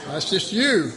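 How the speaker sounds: a hint of laughing, teasing answer; amused reply. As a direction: tease them gently, half laughing. Jesus voiced answering with laughs.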